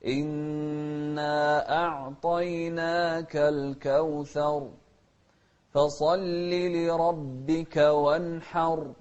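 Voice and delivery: slow measured tajweed chant; slow Quran recitation. Shown as a demonstration. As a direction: recite slowly with drawn vowels.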